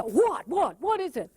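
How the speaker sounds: impatient snapping questions; annoyed what is it; irritated. Retold or imitated. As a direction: brush them off impatiently. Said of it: "They just see the".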